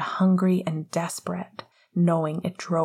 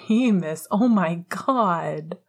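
a hint of a growl, drawn out slowly; half-exasperated growl of his name; lightly growled protest; mild growl; slower than usual. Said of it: "Sirius growled".

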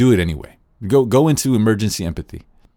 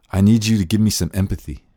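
a firm, pushy request; demanding tone; 4 dB louder than usual. Shown as a demonstration. Teacher voicing a pushy demand for empathy. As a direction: insist on it rather than ask. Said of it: "That's, that's, no".

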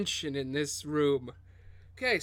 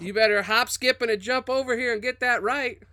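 put-on Southern accent; 2 semitones higher than usual. Customer scolding the bartender over spit in his drink, Southern accent. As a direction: tell them off in a Southern twang, building in pitch. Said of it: "I almost wish I made him Southern".

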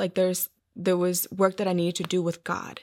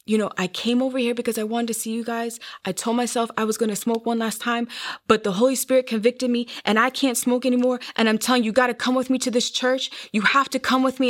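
earnest pleading in a higher voice; retold urgent plea; 3 semitones higher, faster than usual. Sister urges speaker to come to church, retold urgent plea. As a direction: imitate an insistent sister, pitched up.

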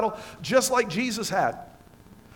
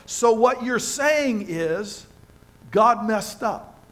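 slow, disbelieving "So what you're saying is God messed up"; incredulous mock; slower than usual. Preacher mocks the doubters, slow and disbelieving. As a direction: draw it out as if it's absurd. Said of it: "you're going".

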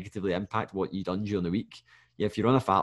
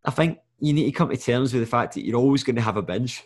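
yawning. Real, not acted. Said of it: "Sorry, I'm yawning".

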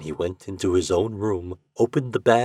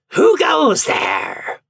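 long, high, loud shout; stretched-out shouted challenge; sentry's challenge; 7 dB louder, much slower than usual. A narrator's reading. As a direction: call out like a devil on guard. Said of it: "the devil doing sentry calls out".

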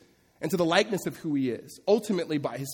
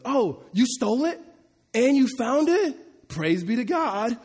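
much higher, slow, delighted mock praise; overjoyed mom missing the point; gushing mother; 8 semitones higher, 5 dB louder, slower than usual. Pastor mocking the indulgent mother praising her thief son, high and gushing. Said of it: "this mom just goes".

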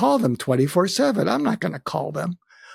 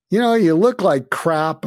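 louder, higher, teasing bluntness; blunt jab; 4 semitones higher, 5 dB louder than usual. Retold or imitated. Telling his ailing friend bluntly he looks bad, loud teasing jab. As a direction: poke him with a frank jab.

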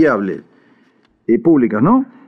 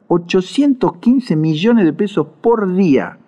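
higher, measured, emphatic repeat; slow-motion repeat; 5 semitones higher than usual. Shown as a demonstration. Commentator repeats Argentina's daily subsidy figure for listeners, slowly and emphatically. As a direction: spell the figure out slowly and deliberately. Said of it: "Lo repito en cámara lenta".

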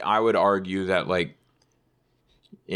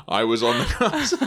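booming voice. Pretend. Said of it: "You just hear a booming voice".

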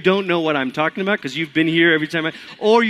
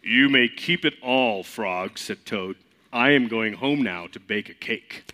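Toad voice; 6 semitones lower, 4 dB quieter than usual. Acted. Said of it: "Toad has to have a lower voice".

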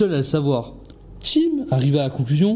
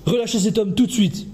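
police shout; 5 semitones higher than usual. Acted. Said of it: "hurla un policier".

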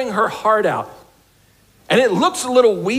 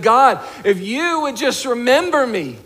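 a desperate prayer, raised and pleading; crying out to God; 4 semitones higher than usual. Retold or imitated. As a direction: cry out a desperate vow. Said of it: "she's crying out".

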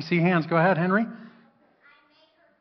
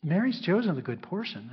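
tender. Acted. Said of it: "some tenderness in the way".

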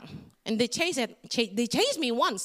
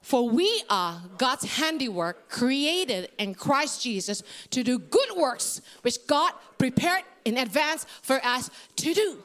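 congregation reading a Bible verse in unison; scripture reading. Shown as a demonstration. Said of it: "Can you read that with me?".

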